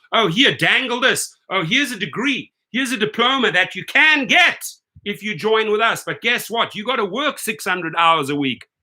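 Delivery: sarcastic imitation of a company dangling bait; mocking come-on; mock sales pitch. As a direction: mimic a too-eager recruiter, swooping up and down. Mimics company baiting drivers with degrees.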